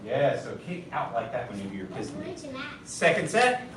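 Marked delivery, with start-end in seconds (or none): 2.9-3.7 shouted drill count. Real, not acted.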